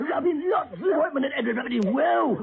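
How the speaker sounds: put-on old woman voice. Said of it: "you ought to be on stage".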